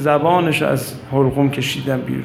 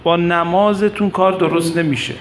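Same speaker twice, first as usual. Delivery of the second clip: lightly raised, urgent speech to a crowd; retold speech; 4 semitones higher than usual. Abes addressing the people on what this path demands, retold oratory. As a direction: exhort the people, building to a higher finish.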